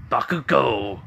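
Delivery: drawn-out, punchy "Bakugo"; hammed-up name reveal; dramatic name call. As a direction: announce the name with relish, stretched out. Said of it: "wanna say it like that".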